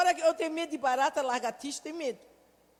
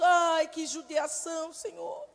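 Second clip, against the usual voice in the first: slow, pitying cry to the Lord; pitying sigh; slower than usual. Retold or imitated. Kneeling beside him, slow pitying prayer. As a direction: sigh with pity, slowly. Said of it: "me ajoelhei junto".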